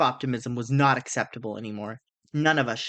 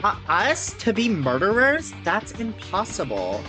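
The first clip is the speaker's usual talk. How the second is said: funny character voice; 5 semitones higher than usual. Acted. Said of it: "this guy's got the best voice".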